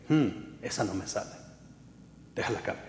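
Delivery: soft muttered self-check; self-critique. Retold or imitated. Singers checking their own song, quiet. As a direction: mutter it to yourself. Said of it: "Escúchense y digan".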